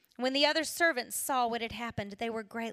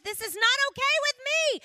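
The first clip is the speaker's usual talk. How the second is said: loud, high anguished plea; desperate cry; 13 semitones higher, 8 dB louder than usual. Retold or imitated. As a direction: cry out to God in despair.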